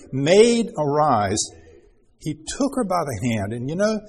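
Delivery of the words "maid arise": raised, louder call of Maid, arise; a bright wake-up call; loud waking call. Shown as a demonstration. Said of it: "that's what we have here".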